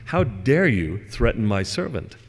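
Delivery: slow, measured mock indignation; indignant. Master confronting Death over his servant, mildly indignant. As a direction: draw out the challenge, lightly acted outrage.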